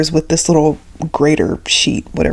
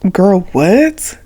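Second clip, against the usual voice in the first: put-on breathy whispered "girl, what?"; murmured under the breath to classmates; whispered disbelief. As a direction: hush it out like a baffled kid in class.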